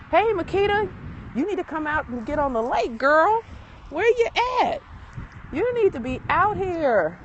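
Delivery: high, loud hail across the lake; calling out to a friend. Real, not acted. Host calls her friend Makita to come join her on the lake, high and loud. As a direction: shout her name to get her out here.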